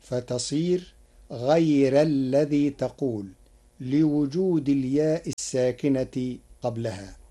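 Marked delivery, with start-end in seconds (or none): 1.3-3.2 غير with a thin, light ra. Shown as a demonstration. Teacher demonstrating Warsh, غير with a thin ra. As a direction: soften the ra in غير. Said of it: "بترقيق الراء".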